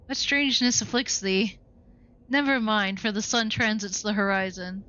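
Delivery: a hint of a stiff, archaic butler; lightly voiced old retainer, prim and correct; lightly voiced formal servant; formal old-fashioned servant. Game character in archaic formal speech.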